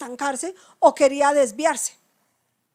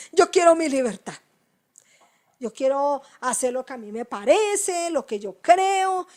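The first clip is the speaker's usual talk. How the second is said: louder, insistent "Yo quiero mi libertad"; stubborn believer mock; 5 dB louder than usual. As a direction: play the defiant believer demanding freedom. Imita creyente terco, más fuerte. (creyente terco exigiendo su libertad, más fuerte)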